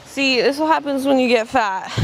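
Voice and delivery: teasing herself, playful fall; mock self-insult with a grin; joking self-roast. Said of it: "Just kidding".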